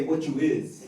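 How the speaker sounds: a hint of a street tough asking; gangbanger slang. Shown as a demonstration. Mock thug sizing up a stranger, lightly voiced. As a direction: toss it out like a corner kid. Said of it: "they say".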